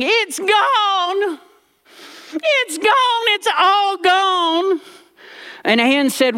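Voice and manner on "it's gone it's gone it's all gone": put-on high, slow wail of a frantic old lady; mock wailing granny. Grandmother bursting into the room, high mock wailing. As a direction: wail it like she's lost everything.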